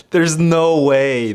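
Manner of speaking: breathy laughing half-whisper; giggling in disbelief. Real, not acted.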